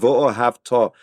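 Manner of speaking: "v'ohavta" with weight spread evenly through to the final "ta"; evenly balanced stress. Shown as a demonstration. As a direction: say "v'ohavta" evenly, giving the last syllable full weight. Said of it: "So notice how I say".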